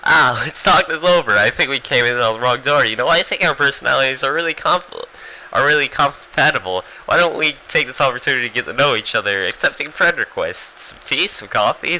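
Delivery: lightly voiced sly schmoozer, speeding up; chummy Furita rant. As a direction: sell the peace offer like a smarmy salesman. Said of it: "Furita just goes on this rant. He's like".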